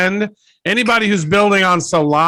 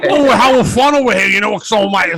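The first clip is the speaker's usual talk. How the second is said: sarcastic fun; 5 semitones higher, 4 dB louder than usual. Pretend. Mocking the forced fun.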